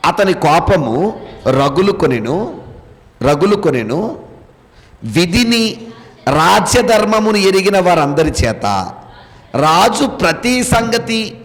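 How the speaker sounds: slow, measured reading aloud; scripture reading. Acted. Teacher reads the verse to the class, slow scripture reading. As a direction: read the verse out slowly, phrase by phrase.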